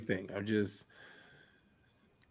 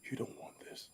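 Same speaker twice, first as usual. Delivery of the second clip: low menacing whisper; villain voice; 22 dB quieter, faster than usual. Pretend. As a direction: threaten like a villain. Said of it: "I'll use my villain voice".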